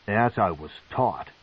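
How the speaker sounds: tight, restrained reply; through clenched teeth. A narrator's reading. Masoge answers his mother through clenched teeth. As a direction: hold back the anger. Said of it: "through clenched teeth".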